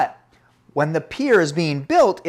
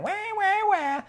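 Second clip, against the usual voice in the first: mock whining. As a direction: imitate a whiner in a squeal. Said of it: "those whining older".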